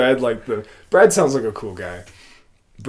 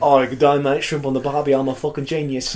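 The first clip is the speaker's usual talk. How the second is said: hammed-up Australian accent, lightly done; mock Australian accent. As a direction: poke fun with a cartoon Australian accent. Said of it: "This is an Australian".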